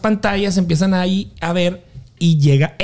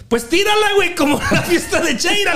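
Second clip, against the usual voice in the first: mimicking a friend; 9 semitones higher than usual. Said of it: "me dice Yair".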